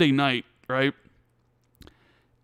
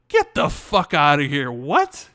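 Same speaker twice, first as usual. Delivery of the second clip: disbelief; 5 dB louder, slower than usual. Retold or imitated. Hearing Bethesda was bought.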